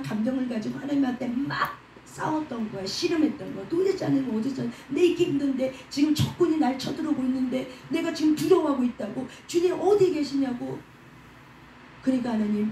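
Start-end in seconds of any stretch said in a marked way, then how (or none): 3.7-10.8 anguished outcry. Acted. David crying out to God in fear.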